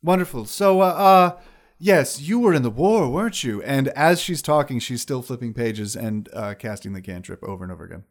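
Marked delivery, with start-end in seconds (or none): 0.0-3.6 high wizard lady voice. Acted. GM voicing eating wizard.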